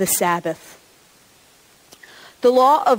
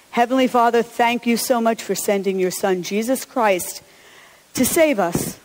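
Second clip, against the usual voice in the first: hushed, earnest prayer voice. Acted. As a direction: lead the congregation in prayer. Leads a prayer.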